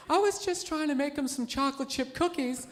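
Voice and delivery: lightly imitated innocent victim; a hint of a wronged woman pleading her case; totally innocent woman. Wife telling Oprah of the cookie beating, mock-innocent voice. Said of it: "totally innocent".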